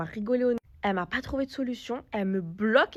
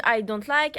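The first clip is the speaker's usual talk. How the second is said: louder, insistent "I don't like"; firm louder repeat; 6 dB louder, slower than usual. Retold or imitated. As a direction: press the point harder on "I don't like". Repeats it to lash owner, firmly. (plus fort, insistante, sur "I don't like")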